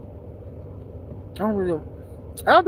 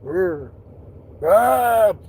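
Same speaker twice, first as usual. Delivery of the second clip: mock growl, second one louder; pretend animal growl; 3 dB louder than usual. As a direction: growl like a cat, playfully. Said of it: "I'd be like".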